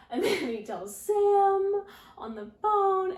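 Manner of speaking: laughing through the words, slow and high. Real, not acted. Vlogger telling viewers about the phone call, laughing. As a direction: giggle while getting it out.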